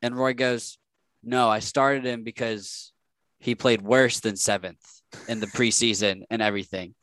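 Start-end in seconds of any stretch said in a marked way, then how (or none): 1.2-6.9 dry, mocking answer, slowed at the start; a hint of a coach's sarcasm, lightly imitated; sarcastic. Coach Roy answering a reporter's question, mildly sarcastic. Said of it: "he said it in a very sarcastic tone".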